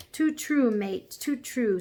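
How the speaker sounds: high, slow Cockney agreement; Cockney cabby. A narrator's reading. Cabby agreeing with his horse, Cockney. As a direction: agree ruefully like a London cabby.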